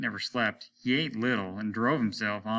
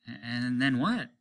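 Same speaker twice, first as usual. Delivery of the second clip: polite question; 3 semitones higher, slower than usual. Acted. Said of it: "ever so politely".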